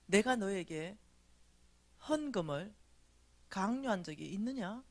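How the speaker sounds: measured phrases with long pauses; lightly voiced God. God questioning the speaker about offerings, lightly solemn. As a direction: ask solemnly, leaving space between phrases. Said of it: "하나님이, 미진아".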